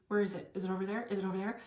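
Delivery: anxious, insistent searching questions; fixated searching. Shown as a demonstration. To listeners, showing the fixated energy, mock anxious. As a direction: hunt for it, a little desperate. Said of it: "don't stay fixated on it".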